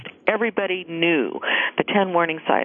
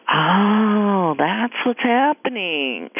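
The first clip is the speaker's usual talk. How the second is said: dawning realization; 2 semitones higher, much slower than usual. Retold or imitated. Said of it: "I would have gone".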